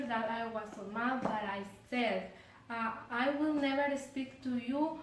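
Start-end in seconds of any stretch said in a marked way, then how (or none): 3.1-5.0 mild angry raised voice, louder mid-line; angry outburst. Retold or imitated. Girl vowing never to speak to cousin again, mildly angry. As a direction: snap it out at her cousin, half-acted. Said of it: "because I was so bored and angry".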